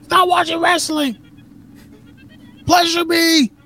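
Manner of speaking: very high falsetto wife voice; hammed-up nagging wife in falsetto; mock wife demand. Imagined wife at the door calling her husband, high falsetto. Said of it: "each one of their wives".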